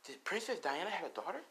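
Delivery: hushed, voiced gossip; whispering crowd. A narrator's reading. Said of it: "as everyone's whispering".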